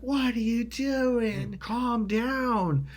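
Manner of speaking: high, drawn-out alarmed plea; urgent remonstrating. Retold or imitated. Pulling his raging friend off her, urgent remonstrating. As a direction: stretch it out high, trying to stop him.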